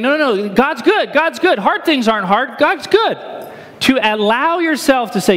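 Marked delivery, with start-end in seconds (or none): 0.0-3.2 forced cheerful denial. Retold or imitated. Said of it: "instead of saying".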